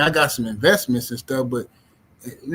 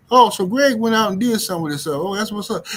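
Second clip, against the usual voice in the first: mock surprise; 5 semitones higher than usual. Stoner reacts in retold chat.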